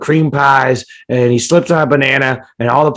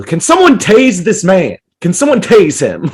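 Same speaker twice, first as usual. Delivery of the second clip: mock alarm; 5 semitones higher, 4 dB louder than usual. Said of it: "And you go".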